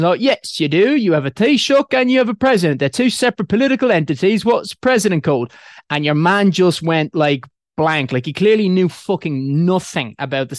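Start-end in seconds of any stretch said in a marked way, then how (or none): 0.2-5.5 put-on English accent, higher and louder; teasing British accent; fake British accent. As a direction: quiz him in a mock English accent. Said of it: "pretending I was English".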